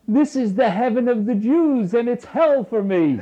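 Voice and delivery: high, loud line through laughter; laughing punchline. Acted. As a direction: deliver the joke while laughing.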